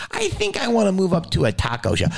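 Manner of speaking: high-pitched hopeful dreamer; lightly voiced timid dreamer; tentative dreamer. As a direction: float a modest ambition up high.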